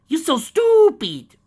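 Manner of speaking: loud, high, slow snarl of contempt. Acted. Mare snarling at the dragon, loud high contempt. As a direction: spit the insult at him. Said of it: "she snared".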